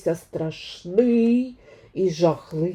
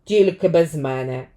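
curt demigod; 3 semitones lower than usual. Acted. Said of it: "відповів напівбог".

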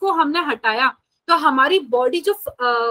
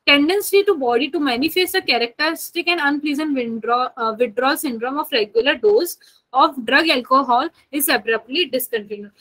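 reading the definition back a bit slower; lightly slowed dictation; much slower than usual. Acted. Teacher rereading the definition to her class, a touch slower. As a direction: read it out again for the notes, unhurried.

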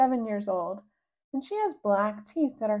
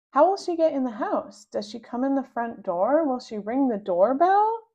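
eager questions; 4 semitones higher, 6 dB louder than usual. Acted. Rascal eagerly quizzing siblings.

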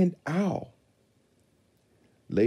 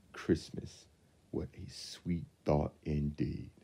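whispered; 3 semitones lower, 6 dB quieter than usual. A narrator's reading. Soft closing thought.

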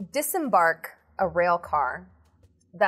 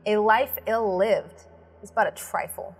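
epic narration; 3 semitones higher than usual. Acted. Epic opening narration over music.

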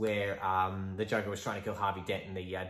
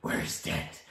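Batman growl; 5 semitones lower than usual. Acted.

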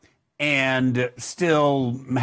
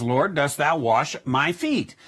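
humble. Shown as a demonstration. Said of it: "very humbly".

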